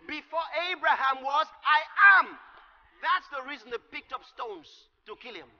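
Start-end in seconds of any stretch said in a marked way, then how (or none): 0.1-2.4 "I am." rung out loud; a sudden loud "I am."; proclaimed aloud. Retold or imitated. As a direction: proclaim it like a declaration. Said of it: "So Jesus said".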